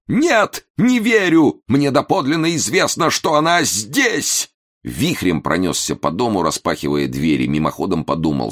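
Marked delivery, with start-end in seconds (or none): 0.1-4.5 exclaiming. A narrator's reading. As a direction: cry out, refusing to believe it. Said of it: "вскричал".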